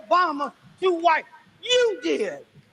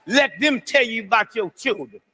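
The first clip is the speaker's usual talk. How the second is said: preaching at full force; 4 semitones lower than usual. Acted. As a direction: lean hard into the sermon, hammering each line.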